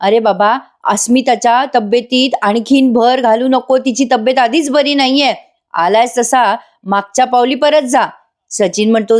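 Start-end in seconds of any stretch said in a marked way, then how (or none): 0.0-8.1 angry yelling. Retold or imitated. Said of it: "Prataprao ओरडतात खूप".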